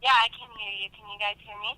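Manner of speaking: caller over a phone line; tinny voice through a held-up phone; phone speaker. Real, not acted. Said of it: "I'm holding my phone up to the microphone".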